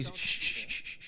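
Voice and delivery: soft repeated shushes; shushing. Acted. Goku hushing his friend as he reads, shushing. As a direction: hush someone in short soft bursts. Acting out shushing during mind reading.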